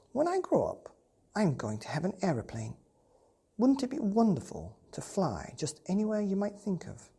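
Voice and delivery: put-on high, eager child's voice; a boy dreaming of flying; excited little boy. Boy telling the cat about aeroplanes, high and eager.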